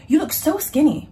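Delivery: put-on a stronger Valley girl skinny compliment; Valley girl accent. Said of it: "No, sorry".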